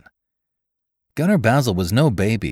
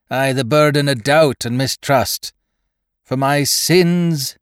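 whining gunner; 7 semitones higher, 4 dB louder than usual. A narrator's reading. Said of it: "The gunner's whine rose".

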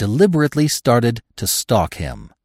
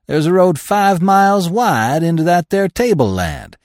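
higher, louder insistence; emphatic claim; 7 semitones higher, 4 dB louder than usual. A narrator's reading. Old trapper correcting the narrator, louder. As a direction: set him straight with gusto.

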